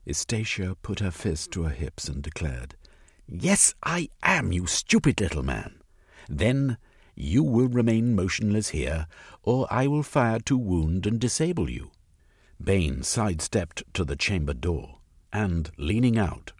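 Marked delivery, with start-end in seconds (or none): 3.3-11.9 defiant lady. Acted. Estacia defying Bain.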